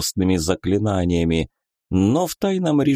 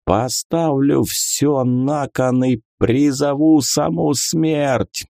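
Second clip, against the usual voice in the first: ominous slow threat; 6 semitones higher, slower than usual. A narrator's reading. God summons death.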